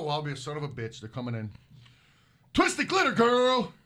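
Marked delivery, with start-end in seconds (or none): 2.5-3.7 high, loud, drawn-out name call; announcer-like greeting. Real, not acted. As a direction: hail the new arrival, stretching the name. Hails viewer joining the chat.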